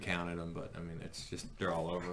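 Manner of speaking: hushed whisper. Pretend. Whispered sneaking talk.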